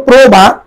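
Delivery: প্রভাত as "pro-bhat", long rounded o; o-vowel pronunciation. Shown as a demonstration. Teacher tells students to look, saying প্রভাত as "pro-bhat". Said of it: "ওকার দিয়ে".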